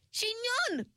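high excited call of a name; excited cry. A narrator's reading. Ringlet excitedly greeting her returned friend. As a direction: cry out in joyful surprise. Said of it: "cried Ringlet excitedly".

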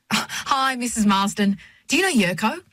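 high, chirpy greeting; chatty checkout girl. A narrator's reading. Checkout girl introducing a customer to a stranger, chatty high voice. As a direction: voice a chatty girl, pitched well up. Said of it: "Amy, who is always chatty".

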